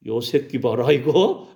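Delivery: gruff coach-like telling-off, half laughing; mock rebuke breaking into a chuckle; acted scolding. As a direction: scold like an old sports senior, amused. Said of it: "예수님도 강하게 혼낸다는 거예요".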